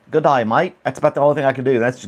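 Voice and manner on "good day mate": attempted Aussie greeting; amateur Australian twang; Australian accent. Shown as a demonstration. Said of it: "I can't do an Australian accent".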